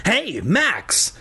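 put-on high, small kid brother voice; tiny, shaky voice. A narrator's reading. Younger brother calls to Max while invisible, tiny high voice. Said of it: "His voice sounded tiny, shaky".

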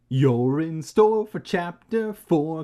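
slow, loud chapter announcement; announcer. Pretend. Reader introduces chapter four, announcer voice. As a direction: announce the next chapter with showy slow weight.

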